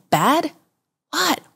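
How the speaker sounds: high, puzzled questioning; baffled disbelief. Retold or imitated. Tourist replying to scolding uncle, baffled disbelief.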